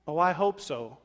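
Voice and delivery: sarcastic hope. Retold or imitated. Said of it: "That's sarcastic hope".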